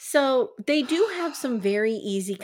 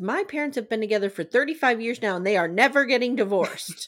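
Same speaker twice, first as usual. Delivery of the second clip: plain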